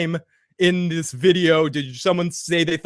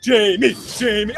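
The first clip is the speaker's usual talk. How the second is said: excited calling. Real, not acted. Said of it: "apologize for my freaking out in there".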